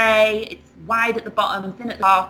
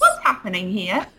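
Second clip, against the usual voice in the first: open teacher question. Retold or imitated. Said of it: "a wonderful open".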